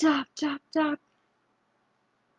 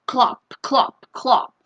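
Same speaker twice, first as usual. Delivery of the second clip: horse clopping; slower than usual. Shown as a demonstration. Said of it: "like horse feet".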